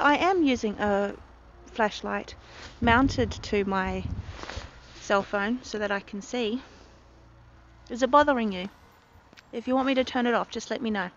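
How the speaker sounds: talking while chewing gum; words round a piece of gum. Real, not acted. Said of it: "Sorry, I'm chewing gum".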